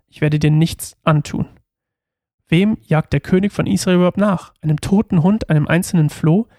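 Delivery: measured read-aloud narration; Bible story reading. A narrator's reading. Reading the story of David and Saul aloud, measured narration. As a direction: read the passage evenly, pausing between phrases.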